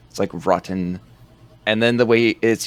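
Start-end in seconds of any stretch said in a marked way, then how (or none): 0.5-1.0 "rotten" with the T's crisply sounded; stressed T's. Retold or imitated. Quoting the Hobo's line to a co-host, stressed T's in "rotten". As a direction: hit both T's in "rotten". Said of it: "puts major emphasis on the T's in rotten".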